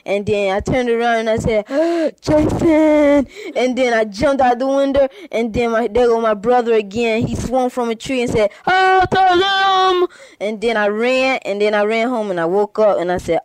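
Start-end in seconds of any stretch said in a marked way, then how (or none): 1.7-3.3 high, loud startled yell of the name; startled cry. Acted. The boy turns around and sees him, loud startled yell. 8.7-10.1 high, loud, slow hammed-up ghostly wail; spooky brother voice. The brother swings from a tree to scare him, slow high mock wail.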